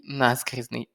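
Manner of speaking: наскрізний stressed on НА, the first syllable. Shown as a demonstration. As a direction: put the stress at the start of наскрізний. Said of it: "Запам'ятайте наголос на перший склад". (наскрізний з наголосом на перший склад)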